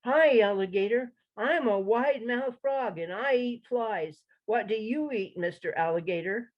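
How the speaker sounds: a hint of a cheerful frog announcing himself; eager frog. Frog greets alligator.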